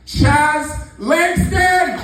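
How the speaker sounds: long drawn-out high shouted name; boxing-ring announcer build-up on the name. Real, not acted. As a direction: hype the act's name to the crowd. Host announcing first act.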